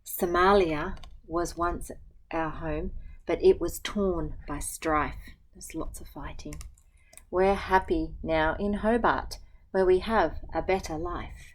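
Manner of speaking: gentle, even picture-book reading; reading to children. Acted. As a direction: read the rhyme aloud to a class. Teacher reads picture book aloud.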